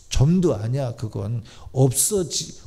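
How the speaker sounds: usual speaking voice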